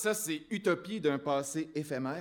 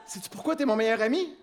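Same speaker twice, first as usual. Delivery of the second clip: shouting; 4 semitones higher, 4 dB louder than usual. Acted. Roast delivered in loud shouts.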